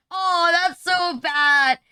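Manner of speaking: loud, slow groan of disgust; that's so bad, dragged out loud; drawn-out cringe. Real, not acted. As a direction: stretch it out, loud and appalled. Cringing at own joke.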